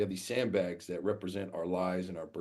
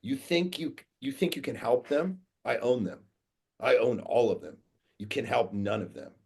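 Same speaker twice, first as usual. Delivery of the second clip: raised, higher-pitched confrontational voice; imitated yelling; 3 semitones higher, 4 dB louder than usual. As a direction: retell a man yelling in your face. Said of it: "comes and yells in my face".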